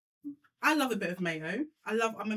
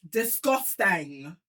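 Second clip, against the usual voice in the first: very slow disgusted; drawn-out disgust; 3 semitones lower, much slower than usual. Acted. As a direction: stretch it out in disgust. Mocking disgust at the food.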